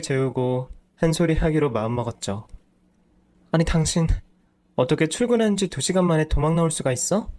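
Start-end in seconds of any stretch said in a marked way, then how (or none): 3.5-4.1 higher, indignant opening; exasperated wife. Acted. Wife confronting her husband after the kids sleep, indignant. 4.7-7.3 "출근한" stressed, rising in disbelief; incredulous. Acted. Wife repeating her husband's excuse, incredulous.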